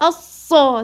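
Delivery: الصا with the doubled ص pushed hard; mistaken, punched doubling in الصا; over-pressed shadda. Shown as a demonstration. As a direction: press too forcefully on the ص of الصا. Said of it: "تضغطي".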